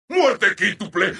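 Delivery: brisker, measured announcer call; restrained announcer call. Acted. Announcer reporting a quintuple kill, restrained.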